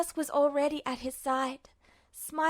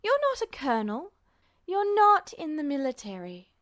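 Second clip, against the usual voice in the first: stern nurse; 2 semitones higher, 3 dB louder than usual. Acted. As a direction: set the child straight, patronizing. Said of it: "she lectured sternly".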